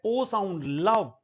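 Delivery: लव said with a short a sound; vowel demo. Shown as a demonstration. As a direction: sound out लव slowly. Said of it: "ओ sound जो ओ sound नहीं है". (लव को अ sound से बोलना)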